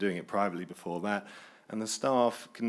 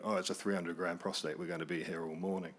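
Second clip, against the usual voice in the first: weary groan; 4 semitones lower, 8 dB quieter than usual. Retold or imitated. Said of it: "there's always a, a groan".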